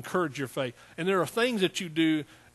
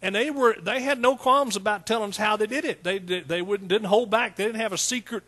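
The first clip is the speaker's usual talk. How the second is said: fervent preaching; 5 semitones higher, 4 dB louder than usual. Real, not acted. Preaching at full force.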